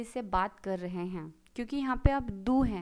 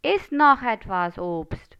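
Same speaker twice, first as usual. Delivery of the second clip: firm command demo; 7 dB louder, much slower than usual. Shown as a demonstration. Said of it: "मैं order दे रही हूँ कि और फल खाओ".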